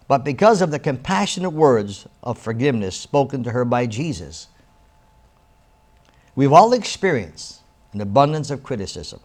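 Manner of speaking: reading aloud with emphatic, fuller voice; inspirational reading. Acted. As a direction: read the excerpt like a heartfelt devotional. Reads book excerpt aloud.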